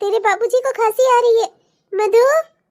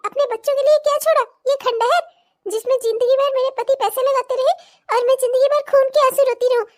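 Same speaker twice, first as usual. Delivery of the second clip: angry rant; 3 semitones higher than usual. Acted. Continued furious rant at in-laws.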